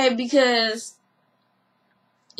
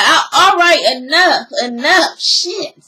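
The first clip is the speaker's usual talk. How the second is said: exasperated; 5 dB louder than usual. Retold or imitated. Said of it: "Mama D is like".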